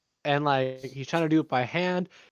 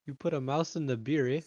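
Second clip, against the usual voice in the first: Canadian joke telling. Pretend. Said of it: "I hope he gets that reference".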